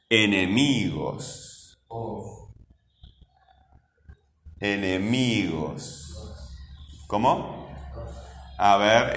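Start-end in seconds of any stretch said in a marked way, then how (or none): 0.1-6.1 "enemigos" very slow, with a long MI; stress on MI. Shown as a demonstration. Teacher waiting for pupils to find it, stretching "mi" in "enemigos". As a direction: draw out "enemigos", leaning on "mi", voice sinking. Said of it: "Hay que escuchar el sonido".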